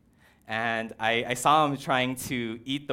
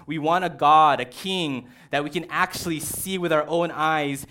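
spoiled demanding people; 3 dB louder than usual. Acted. People telling God to shut up, loud bratty demand. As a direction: whine it like fed-up kids who want to fit in. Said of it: "They say".

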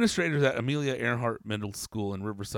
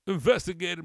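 sarcastic echo; 8 semitones higher, 6 dB louder than usual. Real, not acted.

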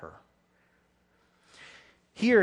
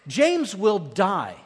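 slow and weighty; 2 semitones higher, 4 dB louder, much slower than usual. Real, not acted. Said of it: "preacher's emphatic pause".

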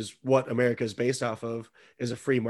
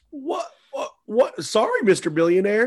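pitched way up, a mock-timid "what?"; mock meek apology; 9 semitones higher, 3 dB louder than usual. Mocking people expected to grovel to a billionaire, in a high mock-meek voice. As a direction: play the cowed little guy, squeaking up high.

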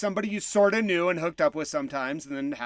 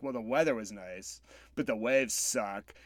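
put-on sulky boyfriend; 8 semitones lower, 8 dB quieter than usual. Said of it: "he's like".

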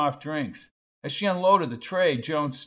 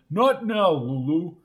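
Wendell's voice; 3 semitones higher, 5 dB louder than usual. Acted. Wendell snaps at Lulu.

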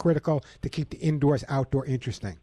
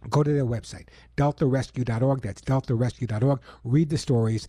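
earnest radio ad read. Acted. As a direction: pitch the charity to listeners. Reads a charity ad.

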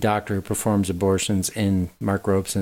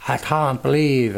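put-on mid-Atlantic accent; 4 semitones higher than usual. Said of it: "Hers is really weird. She's like".

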